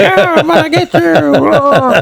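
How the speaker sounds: very high, slow, tiny toy voice. Retelling playing with toys with a grandson: little voice for a toy. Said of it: "I'm using my little voices for the toys".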